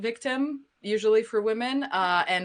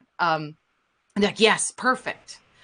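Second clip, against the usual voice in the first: plain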